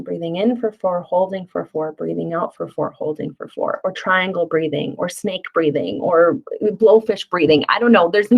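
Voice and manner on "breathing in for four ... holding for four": soft, fading breath count; counting the breaths softly. Shown as a demonstration. Parent coaching a child through square breathing, soft counting. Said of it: "square breathing".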